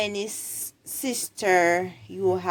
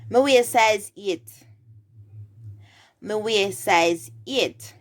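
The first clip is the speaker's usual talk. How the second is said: Jamaican Patois demonstration; 4 dB louder than usual. Shown as a demonstration. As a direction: model the answer in Jamaican Patois. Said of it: "the person would respond".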